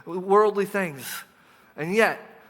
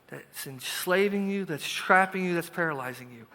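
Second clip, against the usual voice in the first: put-on calm a worried child; slow comforting. God voiced comforting, slow.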